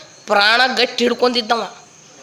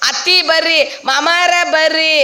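high, drawn-out cry to the in-laws; mock wailing call; 6 semitones higher than usual. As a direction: stretch the call like a wailing wife. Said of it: "ಜೋರ್ ಬಾಯಿ ಮಾಡ ಅಳ್ಳಾಕತ್ತಿದ್ಲು". (ಗೋಳಾಡುತ್ತಾ ಕರೆಯುವ ನಟನೆ)

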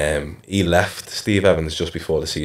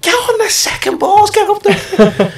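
mock manager yell; 6 dB louder, slower than usual. Manager barking orders at player.

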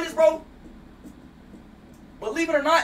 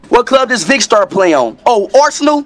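mocking voice memo; 2 semitones higher, 5 dB louder than usual. Streamer recording a taunting voice memo, loud and mocking. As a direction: call it out, then pitch up in disbelief. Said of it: "just do a voice memo".

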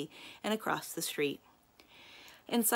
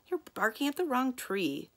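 snarled; 7 semitones higher than usual. Acted. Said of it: "Kirby snarled".

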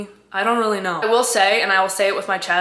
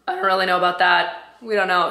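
voice cracking. Real, not acted. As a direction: voice cracking now and then. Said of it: "Sorry about the voice cracks".

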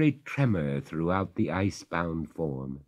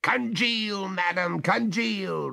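coldly; 14 semitones higher, slower than usual. A narrator's reading. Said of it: "returned Oglethorpe coldly".

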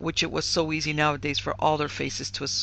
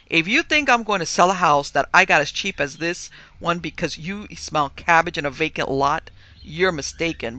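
loud, firm refusal; 2 semitones higher, 8 dB louder than usual. A narrator's reading. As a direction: put your foot down hard. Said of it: "replied David firmly".

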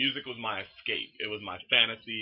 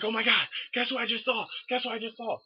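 high, bursting-with-news squeal; excited phone gushing; 12 semitones higher than usual. Retold or imitated. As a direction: gush to a best friend, pitched way up. Retold excited call to best friend.

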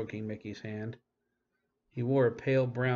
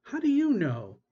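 high, loud challenge; demanding shout; 12 semitones higher, 8 dB louder than usual. A narrator's reading. Lyle demanding of Jeremy, a high loud challenge. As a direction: demand it, raising the voice.

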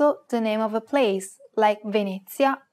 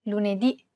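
lunedì with the last syllable stressed; stress on final vowel. Shown as a demonstration. Host shows grave accent examples, final ì stressed in lunedì. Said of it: "end of a word can have a grave accent".

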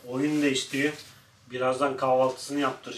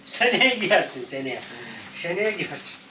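pet talk; 2 semitones higher than usual. Real, not acted. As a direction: stretch it out sweetly for the dog. Telling dog about outfit.

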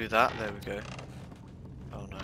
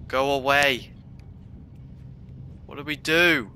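scared pleading; 2 semitones higher than usual. Real, not acted. Monster returns.

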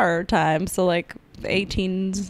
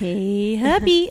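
sweetly nudging her husband; Eleanor Roosevelt impression; much slower than usual. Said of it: "my impression of Eleanor Roosevelt".

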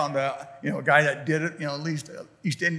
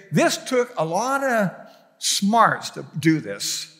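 awed; slower than usual. Retold or imitated. Voicing awe at the iPhone.

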